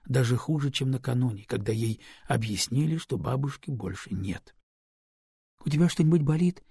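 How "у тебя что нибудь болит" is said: anxious question. Acted. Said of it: "тревожно спрашивала Люба".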